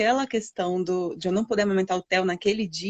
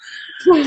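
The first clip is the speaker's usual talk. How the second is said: tearful laugh; 8 semitones higher, 8 dB louder than usual. Real, not acted. Moved to tears recalling son.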